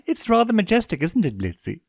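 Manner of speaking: high, pleased owl prince. A narrator's reading. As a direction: preen proudly over the gift. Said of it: "Stolas laughed, pleased".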